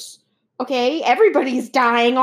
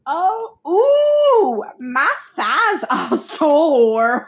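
laughing; 4 dB louder, much slower than usual. Real, not acted. Laughing fit over own joke.

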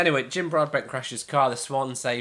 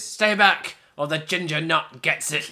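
mock threat; 3 semitones higher than usual. Host quotes a favourite film line, mock threatening shout. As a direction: call it out like a hostage-taker.

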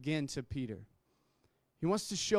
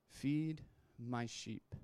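gentle command; 4 semitones lower, 4 dB quieter, much slower than usual. Acted. Jesus' gentle reply.

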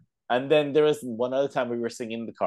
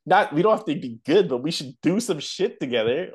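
excited plea; 7 semitones higher, 4 dB louder than usual. Retold or imitated. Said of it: "I was like".

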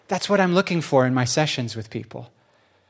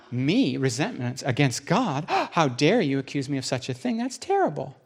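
mock indignation; 3 dB quieter than usual. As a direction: play the outraged innocent. Wife denies resentment, offended.

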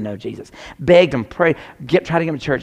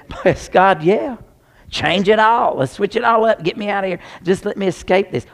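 put-on whiny kid; 7 semitones higher, 4 dB louder than usual. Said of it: "when I was a kid in it, I say".

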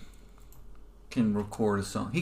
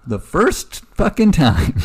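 excited; 7 semitones higher, 6 dB louder, slower than usual. Real, not acted. Laughing disbelief at the guess.

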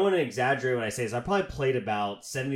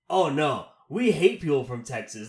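lightly put-on Australian accent, a bit higher and louder; 6 semitones higher, 7 dB louder than usual. Australian guy trashing Texans, in a light mock Australian accent. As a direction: imitate an Australian guy ranting, loosely. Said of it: "That's not a very good Australian accent".

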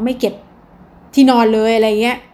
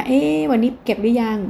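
gentle reminder. Shown as a demonstration. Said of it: "ท่าทีที่เข้าไปก่อนนะ".

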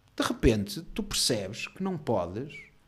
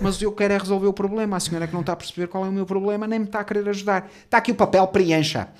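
heated argument; 5 semitones higher, 5 dB louder than usual. Retold or imitated. Acted quarrel at the counter.

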